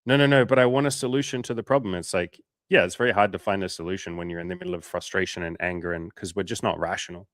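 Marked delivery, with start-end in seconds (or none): 0.0-2.0 higher, louder whiny protest; imitating a frustrated client, higher and louder; mock protest. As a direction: whine like a stubborn client. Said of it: "And then you'll say".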